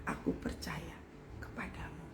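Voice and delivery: soft whispered declaration of trust; whispered prayer. Retold or imitated. Preacher demonstrates trusting prayer, whispered. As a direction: breathe it out quietly. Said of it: "Saya cuman bilang sama Tuhan".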